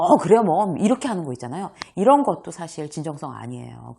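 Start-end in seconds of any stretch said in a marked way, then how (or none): 0.0-0.7 loud, exaggerated "어, 그래요 뭐"; showing fake overreaction; overdone reaction. Shown as a demonstration. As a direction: ham up the agreement before they finish. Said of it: "막 오버해서".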